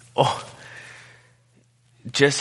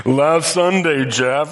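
mock heckler; 6 semitones higher, 4 dB louder, slower than usual. Imagined heckler answers the pastor.

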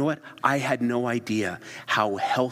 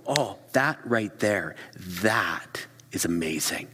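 slow, hushed, breathy awe; awed appreciation; slower than usual. Pretend. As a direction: savor each word in wonder. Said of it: "You go".

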